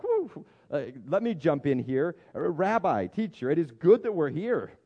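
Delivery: high whoop then loud, keen blurting; eager butting in. Retold or imitated. Peter pipes up on the mountain, eager and loud. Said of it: "he pipes up and he's like".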